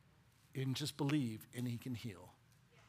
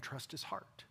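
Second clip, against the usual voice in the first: much softer earnest words; soft plea; 9 dB quieter than usual. Real, not acted. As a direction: lean in quietly. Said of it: "When you can't see his hand".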